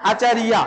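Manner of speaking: আচার্যা as "achariya"; Sanskrit pronunciation. Shown as a demonstration. Teacher contrasts the Sanskrit for pupils, Sanskrit pronunciation. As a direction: sound the য in আচার্যা as "iya", no "j". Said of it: "এমন উচ্চারণ করতে হয়".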